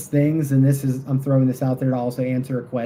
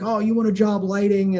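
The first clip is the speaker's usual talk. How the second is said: sarcastic; 6 semitones higher than usual. Retold or imitated. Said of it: "didn't pick up on the sarcasm".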